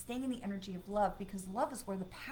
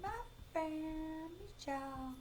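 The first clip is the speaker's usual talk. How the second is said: 1 delighted greeting; 7 semitones higher, 6 dB quieter, slower than usual. Real, not acted. Gasping greeting to a viewer.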